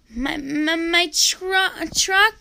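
acted sobs, high and halting; little boy crying over his truck; sobbing. A narrator's reading. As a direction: stammer through tears. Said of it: "Naphtali said between sobs".

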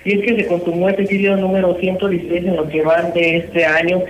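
hollow distant phone line; phone held away. Real, not acted. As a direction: caller far from the phone. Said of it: "se escucha súper hueco".

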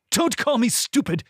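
high, tense hissed retort. A narrator's reading. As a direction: hiss it back, stung. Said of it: "he hissed".

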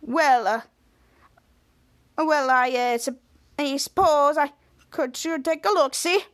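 halting, lightly faked Italian accent; hesitant mock Italian plumber, reluctantly agreeing; a hint of fake Italian; Schwoz's Italian disguise. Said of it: "Cut to Schwartz in disguise said".

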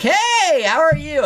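very high sing-song hello; high cheery greeting. Retold or imitated. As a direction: chirp it way up high. Mock cheerful greeting to strangers.

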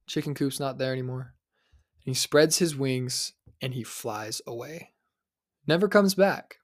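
measured storyteller's telling of a parable; unhurried parable telling; story narration. Acted. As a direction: tell it like a fable to the audience. Tells the eagle parable.

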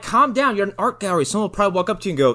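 high, loud fast reassurance; exasperated. Retold or imitated. Podcaster telling the wife to calm down, high and fast. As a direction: talk her down impatiently. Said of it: "I'm like".

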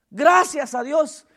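"Gracias" drawn out slowly; slow thanks. Real, not acted. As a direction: linger on "Gracias a Dios". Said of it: "repeated thanks". ("Gracias a Dios" dicho lento)

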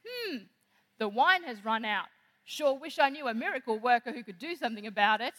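Mary hinting to Jesus about the wine, pointed and coy; hinting statement. Retold or imitated. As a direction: say it so he gets the hint. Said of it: "Mary doesn't ask a question".

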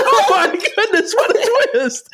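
hammed-up astonishment, laughing through it; mock surprise. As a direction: play up the shock like a soap twist. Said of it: "I'm like".

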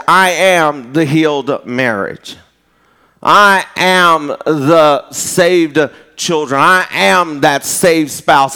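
slow, emphatic litany; preached declaration. Acted. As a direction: proclaim each promise slowly, phrase by phrase.

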